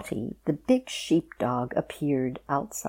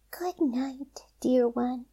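whispered; 8 semitones higher, slower than usual. A narrator's reading. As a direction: breathe it to the apple.

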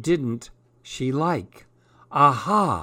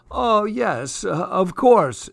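reluctant royal teacher; 6 semitones higher, 3 dB louder, slower than usual. Acted. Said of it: "she said".

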